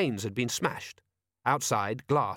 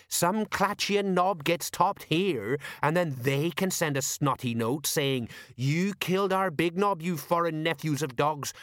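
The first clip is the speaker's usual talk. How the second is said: know-all sergeant, conspiratorial; higher voice, explaining a cunning plot; Colon; 6 semitones higher, slower than usual. Acted. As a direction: lay it out with knowing relish.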